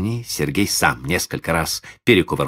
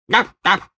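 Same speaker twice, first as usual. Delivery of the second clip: plaintive dog bark; 14 semitones higher than usual. A narrator's reading. Dog barking twice.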